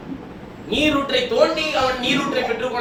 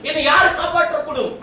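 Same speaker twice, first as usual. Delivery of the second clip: raised-pitch pleading, acted out by a preacher; imitated lament; 4 semitones higher than usual. Preacher voicing a helpless man crying to the Lord, imitated lament. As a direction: cry out in mock despair. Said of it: "அழுது புலம்புகிறான்".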